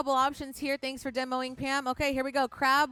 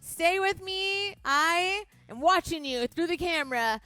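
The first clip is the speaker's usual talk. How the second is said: rising, louder coaching count; energetic countdown; 3 semitones higher, 3 dB louder than usual. Real, not acted. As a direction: push them through the last seconds. Instructor counting down final plank seconds.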